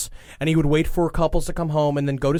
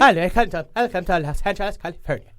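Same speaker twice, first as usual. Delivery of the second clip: put-on California accent; faster than usual. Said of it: "sounds oddly like your, uh, Irish accent".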